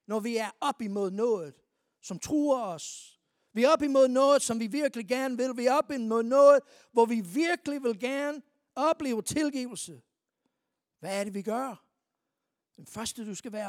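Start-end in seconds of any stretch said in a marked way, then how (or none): 3.5-10.0 loud, driving sermon climax; preaching at full force. Real, not acted. Preacher urging the church about what threatens them, loud and driving. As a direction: hammer it home to the congregation. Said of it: "preacher builds intensity".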